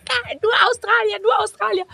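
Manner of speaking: high, gleeful mock cheer; excited cheer. Partygoers in a disco cheering over Australians, high and gleeful.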